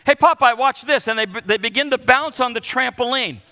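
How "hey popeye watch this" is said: put-on loud, high, eager child's call for attention; excited kid calling out. Grandkids calling grandpa from the trampoline, loud eager yell. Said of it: "My grandkids constantly say".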